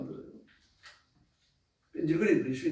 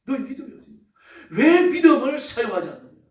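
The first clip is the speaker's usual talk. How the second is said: Jesus rebuking; 6 semitones higher, 7 dB louder than usual. Acted. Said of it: "그때 예수님께서 뭐라 그러십니까".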